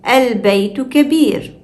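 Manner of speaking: Al begun with a clear opening vowel; hamza pronounced. Shown as a demonstration. Teacher shows sentence-initial Al, hamza pronounced. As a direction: sound the hamza at the start of Al. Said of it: "we pronounce it".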